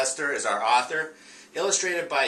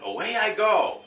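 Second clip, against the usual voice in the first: much higher storybook dog; re-reading the dog's line for the class, much higher; 8 semitones higher, 4 dB louder than usual. Acted. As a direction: sing out the dog's line up high. Teacher re-reads dog's line.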